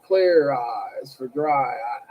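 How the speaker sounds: slow, low droning teacher voice; imitating the monotone teacher, slowly. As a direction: drag each word out in one flat line. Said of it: "He'd be like".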